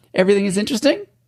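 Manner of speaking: rising Australian lilt. Showing an australian accent by making a statement a question: australian question-like rise. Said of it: "If you want an Australian accent, all you gotta do is make it a question".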